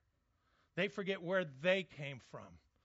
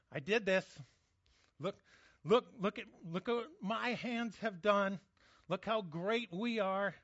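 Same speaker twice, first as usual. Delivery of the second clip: a hint of proud swagger, louder; mock boast; 3 semitones higher, 3 dB louder than usual. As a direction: puff up like a proud man admiring his work. Boastful pride acted out.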